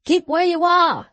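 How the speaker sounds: high, loud warning call. A narrator's reading. Guard calling into the mist to a stranger, loud warning. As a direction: hold the stranger back with a shout. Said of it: "the guard called to the voice".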